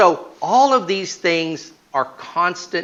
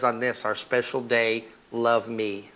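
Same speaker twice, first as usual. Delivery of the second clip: reading the card softly; 3 semitones lower, 6 dB quieter than usual. Retold or imitated. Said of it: "a little card that says".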